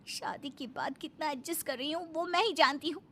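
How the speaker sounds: sarcastic, swooping litany of complaints; nagging wife. Acted. Wife to husband about his mother and friends, nagging. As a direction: nag him, point by point. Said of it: "फिर प्रीति का भजन शुरू".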